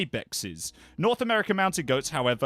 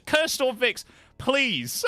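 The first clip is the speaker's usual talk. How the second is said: mock pleading; 8 semitones higher, 3 dB louder, much slower than usual. Real, not acted. Pleading with chat.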